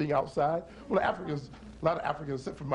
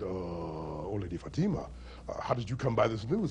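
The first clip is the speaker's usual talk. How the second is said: stern soldier; 7 semitones lower, 4 dB quieter than usual. Acted. Soldier questions her gravely.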